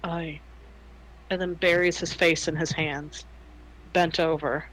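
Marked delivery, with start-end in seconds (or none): 0.0-0.4 a soft, defeated aye, much softer; softly. Acted. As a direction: breathe it out in resignation. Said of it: "and softly says".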